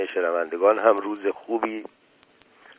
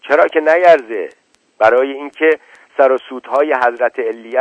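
a raised, higher shout from an angry father; 3 semitones higher, 4 dB louder than usual. Acted. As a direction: hurl it back at her, louder and higher. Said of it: "صدای فریاد پدرش بلند شد".

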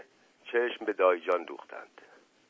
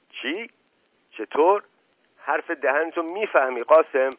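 angry; 6 semitones higher, 5 dB louder than usual. Acted. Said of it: "خشم دایی جان متوجه مشقاسم شد".

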